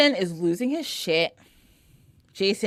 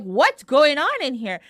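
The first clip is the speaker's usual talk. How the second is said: higher, urgent question; alarmed demand; 4 semitones higher than usual. Acted. King runs in hearing all the screaming, acted alarm. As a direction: burst in and demand answers.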